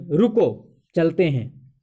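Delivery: "रुको" rising, pause, then "चलते हैं" falling; comma pause. Shown as a demonstration. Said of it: "तो comma इस दोनों के बीच में".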